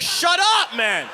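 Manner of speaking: high, loud exasperated yell; acted outburst. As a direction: yell it to cut the kid off. Acted retort to the kid.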